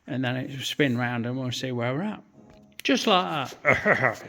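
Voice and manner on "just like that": slow, drawn-out music-hall comic catchphrase; lightly put-on comedian voice, very slow; a hint of an old stage comic. Comic catchphrase after a job.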